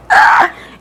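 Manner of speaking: loud, voiceless burst of laughter; sudden loud laugh. Real, not acted. Reader breaking up at her own remark, loud laugh. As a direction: let out a short explosive laugh.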